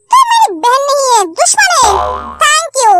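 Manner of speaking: crying while shouting at his sister; hurt, furious accusation; betrayed brother yelling through tears; tearful angry shout. Acted.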